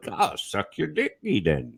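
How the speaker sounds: slow, put-on Amish accent; mock Amish accent. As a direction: ham up a made-up Amish accent. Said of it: "That's how the Amish talk".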